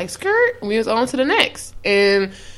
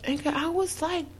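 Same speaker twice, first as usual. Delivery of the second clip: indignant; 6 semitones higher than usual. Retold or imitated. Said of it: "And it's like".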